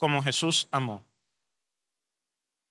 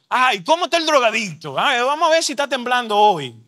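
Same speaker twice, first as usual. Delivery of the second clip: higher-pitched parody of a busybody; mocking nosiness; 5 semitones higher, 3 dB louder than usual. Imitating church members greeting a returning addict, mocking nosiness. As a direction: imitate a tactless gossip fussing over someone.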